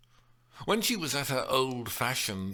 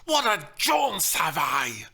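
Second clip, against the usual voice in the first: loud, slow, higher spat-out shout; nasty accusation; 8 semitones higher, 7 dB louder than usual. Acted. The nurse spitting out her complaint at Juliet. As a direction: hurl it like an accusation. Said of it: "She spat it out like a nasty accusation".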